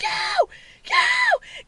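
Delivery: high-pitched shrieked interjection; reenacted alarmed squeal; panicked yelling. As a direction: yelp it as if warding someone off. Reenacts yelling at screaming witch.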